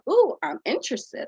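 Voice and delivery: high, bright inquisitive ooh; curious and interested. Shown as a demonstration. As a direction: perk up as if intrigued. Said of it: "raise your eyebrows, that's like".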